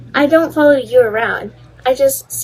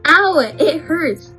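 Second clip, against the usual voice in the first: high, hurt yelp; pained whine; 4 semitones higher, slower than usual. Acted. Student complaining to teacher of a bite, pained whine.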